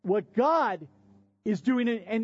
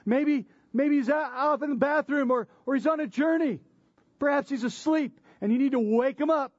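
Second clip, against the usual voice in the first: higher, teasing sarcastic voice; mocking taunt; 6 semitones higher than usual. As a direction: needle them with mock concern. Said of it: "he's mocking them and he's saying".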